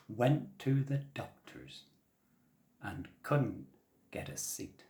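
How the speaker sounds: slow teaching chant, word by word; slow, careful rhyme; very slowly. Shown as a demonstration. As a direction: spell it out slowly for the children. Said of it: "I'll do it very slowly".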